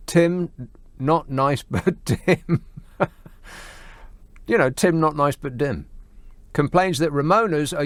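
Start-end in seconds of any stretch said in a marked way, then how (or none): 0.1-2.6 spaced-out phrases with pauses and a chuckle; halting, amused. Real, not acted. Host reads out a listener's nickname for Tim, halting and amused. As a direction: break it into pieces, laughing before the end.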